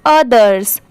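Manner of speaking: others said alone with final s; full pronunciation. Shown as a demonstration. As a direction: repeat others, sounding the last s. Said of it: "इसको पढ़ेंगे others". (others, आख़िर का स साफ़ बोलकर)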